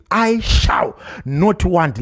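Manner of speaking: very slow, each word of "I shall not want" set apart; slow emphasis. Shown as a demonstration. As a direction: spell out "I shall not want" slowly for the church. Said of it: "temu rakashandiswa rechirungu".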